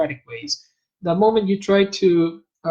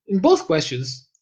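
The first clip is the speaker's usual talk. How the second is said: normal talking voice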